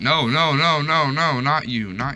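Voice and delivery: high loud panicked nos; scared of a terrifying mob, high and loud. Real, not acted. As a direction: blurt it out in alarm.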